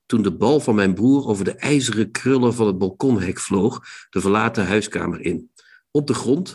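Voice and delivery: measured literary read of the opening; reading aloud. Acted. Host reads Vestdijk's opening to Rob, calm reading voice. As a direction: read the novel's opening to the listener.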